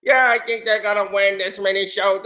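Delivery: lightly imitated Italian-accent sports fan; mock the fake Italian accent, a bit low. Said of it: "fake Italian accents like the dudes who do".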